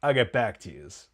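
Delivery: lightly voiced gangster line at normal pitch; a hint of gangster impression; mafia cowboy. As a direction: imitate a mafia cowboy signing off. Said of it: "like, mafia cowboy guy that Bevilacqua plays".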